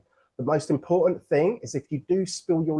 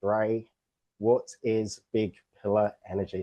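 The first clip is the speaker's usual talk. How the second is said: imagined audience voice; 5 semitones lower than usual. Retold or imitated. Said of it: "I know what some of you are thinking".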